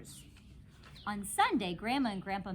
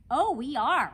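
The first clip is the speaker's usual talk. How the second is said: eager exclaim; 5 semitones higher, 11 dB louder than usual. A narrator's reading. Eager reassurance to principal.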